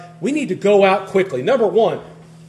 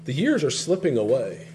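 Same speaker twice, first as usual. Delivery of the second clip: low, soft poetic musing; hushed, lower-pitched poetic aside; waxing poetic; 5 semitones lower, 7 dB quieter than usual. Shown as a demonstration. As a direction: let it fall away quietly, like a wistful line of verse. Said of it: "if I could wax poetic".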